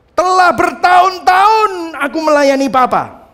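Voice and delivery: elder son's complaint, high, loud and slow; resentful elder son. Acted. Elder son complaining to his father, loud and aggrieved. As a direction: throw out the grievance like a wronged son. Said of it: "dia berkata gini".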